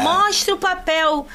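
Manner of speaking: high, slow mock demand; demanding friend. Samira confronting the attendants, high slow demand. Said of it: "Aí ela".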